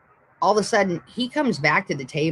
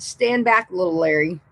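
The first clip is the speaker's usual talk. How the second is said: dad's warning. Retold or imitated. Dad to the manager yelling at him, mildly stern retold warning. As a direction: imitate a dad warning someone off, lightly.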